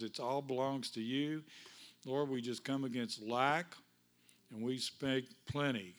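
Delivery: earnest congregational prayer, unhurried. Acted. Pastor praying aloud over his congregation, earnest. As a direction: pray over the church with steady conviction.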